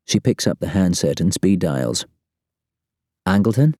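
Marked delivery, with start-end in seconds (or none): 3.3-3.7 Mo's voice. Acted. Mo calls her boss tensely.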